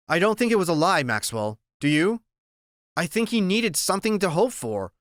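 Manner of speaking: doctor voice. Acted. Doctor comforts the boy.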